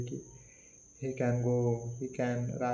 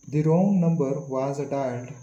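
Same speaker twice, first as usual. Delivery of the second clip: "wrong" held long and louder; stress on wrong number; 7 dB louder than usual. Shown as a demonstration. Teacher showing the focus of a sentence, stress on "wrong number". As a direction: hit "wrong number" firmly, then ease off. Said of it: "So emphasis on this".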